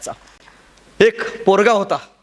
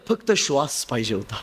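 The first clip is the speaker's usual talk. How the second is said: dropped low and soft, just needing air; breathless hush; 8 semitones lower, 6 dB quieter than usual. Acted. Nearly drowned boy answering the guru, low and breathless. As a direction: say it as if you can barely breathe.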